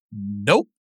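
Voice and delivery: a deadpan no, said low; low curt nope. Retold or imitated. Player turning down a begging kid, low and deadpan. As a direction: drop low and soft, flat refusal.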